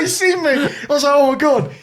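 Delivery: very high, giggly retold alarm; squeaky with laughter, pretending dread; laughing mock panic. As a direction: replay the fright through real laughter. Retells panic at being spotted.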